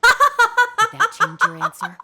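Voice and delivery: menacing threat. Acted. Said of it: "S1 laughs at the threat".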